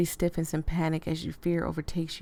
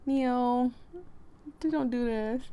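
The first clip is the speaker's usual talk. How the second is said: higher, stammering plea; frightened plea; 6 semitones higher, slower than usual. Acted. Marlo begging Neil to stop, afraid. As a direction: beg him to stop, shaken. Player line pleading.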